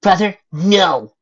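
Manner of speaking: high, loud, drawn-out plea; desperate cry. A narrator's reading. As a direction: cry out to stop the blade. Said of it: "Adam cried as the blade came".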